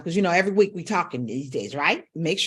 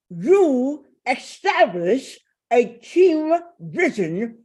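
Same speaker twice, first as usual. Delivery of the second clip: slow, muffled words around a cork in the teeth; over-articulate past the cork, slowly; through a wine cork; 5 semitones higher, slower than usual. Shown as a demonstration. Coach showing students cork practice, slow muffled speech. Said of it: "with the wine cork in your mouth".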